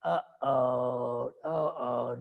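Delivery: drawn-out uh-oh of trouble; comic dismay. Acted. King hearing his son's impossible demand, comic dismay. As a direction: sound the alarm with mock dismay. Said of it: "And Daddy goes".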